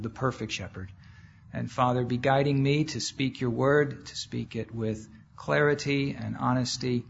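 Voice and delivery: settled, reverent public prayer; spoken prayer. Real, not acted. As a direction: pray aloud in measured phrases, addressing the Father. Leads an opening prayer.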